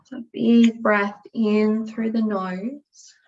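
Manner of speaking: calm, unhurried yoga nidra guidance with long pauses; guided meditation. Acted. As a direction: ease them gently into rest and stillness. Leads a guided relaxation.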